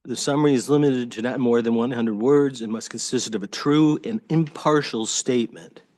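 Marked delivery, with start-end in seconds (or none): 4.0-5.8 impartial given a firm falling accent; stress on impartial. Shown as a demonstration. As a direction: lean on the word impartial, let it drop at the end. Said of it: "I emphasize the word impartial".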